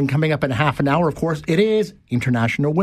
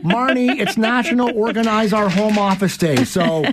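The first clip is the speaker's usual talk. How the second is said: playful teasing; 7 semitones higher than usual. Real, not acted. Teasing wife on air.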